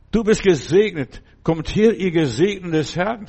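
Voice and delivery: hoch und laut der Gemeinde zugerufen; lauter Segenszuspruch. Real, not acted. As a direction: sprich den Segen kraftvoll aus. Segnet die Gemeinde laut. (lauter, feierlicher Zuspruch)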